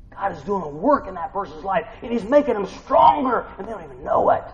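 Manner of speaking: rising from loud to full high shouting; building preaching shout. Real, not acted. Preacher at full force, shouting to the congregation.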